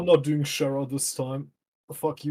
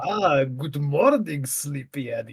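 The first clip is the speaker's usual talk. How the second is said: straight male voice; slower than usual. Acted. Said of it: "Straight up male voice".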